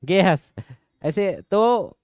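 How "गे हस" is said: Chhattisgarhi speech. Retold or imitated. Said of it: "बचपन से हमको करम करम करके".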